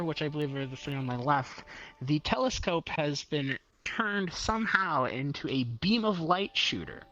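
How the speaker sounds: ordinary talk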